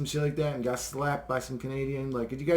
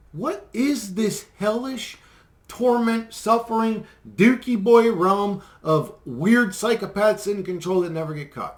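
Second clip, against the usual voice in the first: building rant; 5 semitones higher, 4 dB louder, slower than usual. Real, not acted. Ranting about hellish reality.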